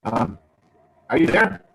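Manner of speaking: breaking-up phone line; bad connection, audio cutting out; crackly phone. Real, not acted. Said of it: "Yeah, you're all crackly".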